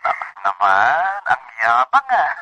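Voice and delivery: teasing. Acted. Husband teases wife slowly.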